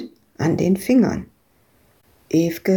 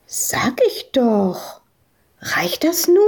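put-on whispered child voice; 4 semitones higher, slower than usual. Madita insists.

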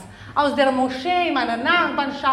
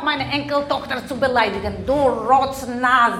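ancestor spirit; 5 semitones lower than usual. Acted. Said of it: "Geist meiner Großmutter".

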